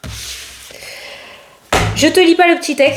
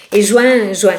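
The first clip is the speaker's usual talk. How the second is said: juin said as "jwè", regional southern French; "juin" repeated in her local accent; her own accent; 3 semitones lower, slower than usual. Shown as a demonstration. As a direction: juin à l'accent du Sud. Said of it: "Avec mon accent".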